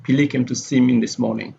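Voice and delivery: "Billy" carries the main stress, clearly read. Shown as a demonstration. Teacher models stressing a new name, stress on "Billy". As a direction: put the sentence stress on "Billy". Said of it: "the stress is on Billy here".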